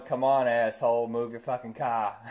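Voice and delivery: put-on irritated driver with a Boston accent; mock Boston road-rage voice. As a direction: gripe at traffic in a Boston accent. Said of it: "I sound like I was from Boston".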